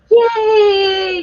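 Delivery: high, loud yay; joyful whoop; excited cheer. Retold or imitated. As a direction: shout it out mid-freefall. Cheering during skydive freefall.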